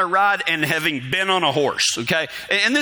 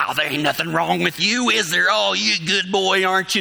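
sweet talk to horse. Retold or imitated. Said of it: "talked real sweet to him".

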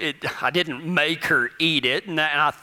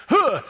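ninja grunt; 7 semitones higher than usual. Acted. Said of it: "like a ninja cricket herder".

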